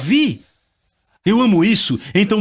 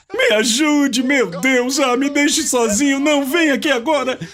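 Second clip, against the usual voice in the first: lightly whined mock prayer; mock whine; 7 semitones higher than usual. Mimicking how some pray, in a lightly whined voice. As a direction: whimper it as a sulky prayer. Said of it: "alguns pregam assim".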